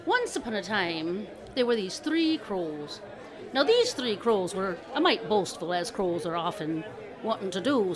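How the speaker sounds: measured storyteller opening; storyteller narration. A narrator's reading. Telling listeners the tale of three crows, storyteller narration. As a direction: set up a folk tale, easing gently in.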